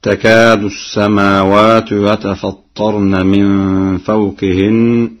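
slow chant starting with تكاد; Quran recitation. Shown as a demonstration. Hafs reading before Warsh. (تلاوة بالتاء)

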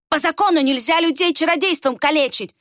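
high, angry objection; through clenched teeth. A narrator's reading. Villager throwing the law back at the girl, seething. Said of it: "процедил Варх".

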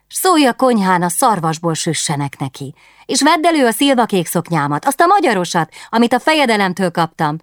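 put-on dreamy young queen longing for fun; wistful princess. Princess plans secret party.

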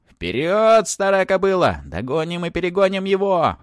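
very high, loud creature yell; yelling dragon. A narrator's reading. Little dragon rides the baron, yelling him onward. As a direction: urge a mount on at full shriek. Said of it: "подгоняя барона, орал".

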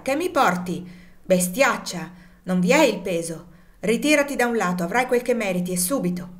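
feigned anger. Acted. Legree pretending the weary woman's basket is short, loud mock anger. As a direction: fake fury at a full basket. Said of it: "esclamò con finta collera".

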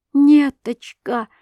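high, loud, drawn-out call; anguished cry. A narrator's reading. Wife rushes to the girl, anguished cry. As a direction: cry out her name in alarm. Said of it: "закричала Александра Михайловна".

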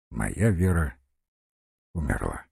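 low, soft, with falling end on умерла; quiet statement. A narrator's reading. General telling of his Vera's death, quietly. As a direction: say it quietly, pausing before умерла. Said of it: "тихо молвил".

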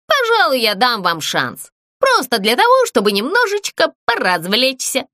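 high, lofty condescending voice; granting a favour; amused ghost. Acted. Ghost grants the puppets a chance, lofty.

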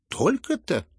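high, openly surprised; loud surprise. A narrator's reading. Aglaya, openly surprised, questions the prince's fortune. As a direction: ask it with open astonishment. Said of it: "громко и откровенно удивилась".

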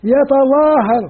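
slow, deliberate يتظاهر with every letter clear; drawn-out recitation. Shown as a demonstration. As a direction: spell out يتظاهر slowly like a teacher. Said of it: "هو إيش بالمضارع".

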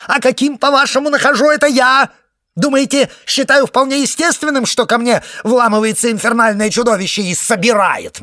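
very high, loud indignant shouting; furious tirade. A narrator's reading. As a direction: spit out every question in outrage. Egg's outraged rant continues.

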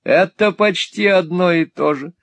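put-on girl answering her friend heatedly. A narrator's reading. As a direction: fire it back hotly. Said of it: "с жаром ответила мисс Сквирс".

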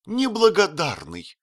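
высокий гневный выкрик; бросить упрёк с возмущением; возмущённый крик. Acted. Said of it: "крикнула она с глубоким возмущением". (крикнуть с глубоким возмущением)

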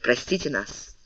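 soft, subdued plea; hushed, embarrassed apology; abashed apology. A narrator's reading. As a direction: ask forgiveness very quietly. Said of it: "смущённые солдаты подошли к генералу".

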